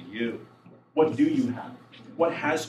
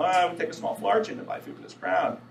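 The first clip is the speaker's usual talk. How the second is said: higher, lightly mocking grumble; sarcastic apostles; 4 semitones higher than usual. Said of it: "they're being all sarcastic".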